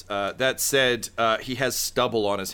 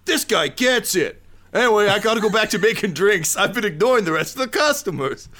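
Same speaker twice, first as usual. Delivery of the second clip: high loud character voice; 10 semitones higher, 6 dB louder than usual. Acted.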